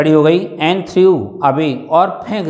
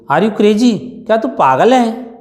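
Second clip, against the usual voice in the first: father's raised, higher shout of disbelief; half-acted angry yell at his daughter; 6 semitones higher than usual. A narrator's reading. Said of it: "shouted Ramlal". (गुस्से में ऊँची आवाज़ में चिल्लाना)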